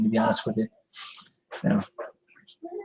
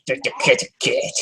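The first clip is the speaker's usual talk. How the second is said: whispered. Real, not acted. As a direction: breathe "kitty cat" as a hush. Repeated line to cat.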